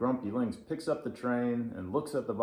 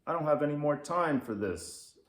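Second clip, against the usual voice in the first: gruff, louder grumpy cat voice; grumpy lynx; 5 semitones higher, 4 dB louder, faster than usual. Acted. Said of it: "says the Grumpy Lynx".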